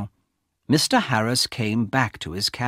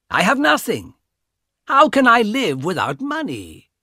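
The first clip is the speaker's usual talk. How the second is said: mocking brother; 5 semitones higher than usual. Young brother taunting his sister about her diamonds, higher and cocky. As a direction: gloat over her, needy and cold. Carl voiced as young man.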